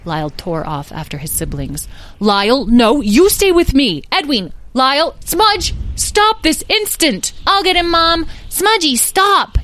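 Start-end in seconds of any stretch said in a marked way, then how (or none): 2.2-7.3 high, urgent mother's shout; exasperated shouting. Acted. Beatrice orders her fleeing draglings back, exasperated shouting. 7.5-9.6 put-on very high, loud child's yell. A narrator's reading. Edwin yells to Mom and after Smudge, yelled. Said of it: "yelled Edwin".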